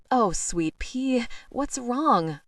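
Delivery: put-on baby talk. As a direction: coo at the frightened kitten, slowly. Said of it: "My baby talk is absurd".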